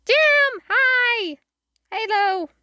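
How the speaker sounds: high, bright call of hello; excited greeting. Real, not acted. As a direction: greet a friend happily. Greeting a viewer on stream.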